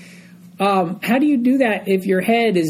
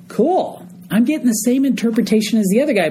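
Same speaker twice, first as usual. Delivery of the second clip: imitating the baker; 4 semitones higher than usual. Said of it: "he's probably thinking to himself".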